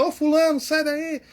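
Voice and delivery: high, loud shout across the room; calling out loudly. Shown as a demonstration. Teacher shows a shout across the room, loud and high. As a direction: yell at someone to get out of there. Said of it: "Falar com o fulano".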